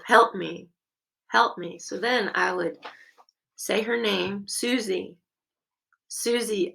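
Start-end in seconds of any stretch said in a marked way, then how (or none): 0.0-1.8 imitating a patient. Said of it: "stuck in that loop of". 4.5-6.7 calling her name gently. Shown as a demonstration. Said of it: "I would match her pace, her rhythm, her inflection".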